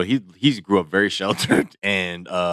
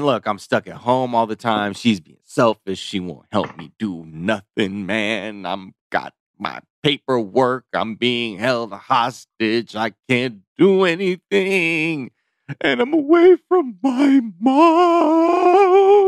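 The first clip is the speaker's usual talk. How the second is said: upset, pleading, emotional, swooping pitch, words drawn out; 4 semitones higher, 4 dB louder than usual. Retelling a TV participant's complaint about being stuck at home: imitating an emotional complaint. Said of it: "he really got emotional".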